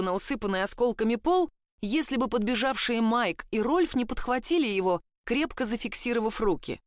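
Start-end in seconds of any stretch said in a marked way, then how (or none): none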